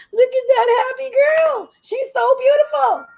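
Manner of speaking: high, slow, adoring coo at the dog; doting pet talk. Real, not acted. Gushing baby talk to dog.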